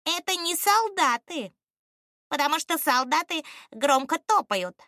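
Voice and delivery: high, apprehensive ostrich voice; wary bird. A narrator's reading. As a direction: say it warily, pitched high. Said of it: "опасливо произнёс Дикий". (опасливо, высоким птичьим голосом)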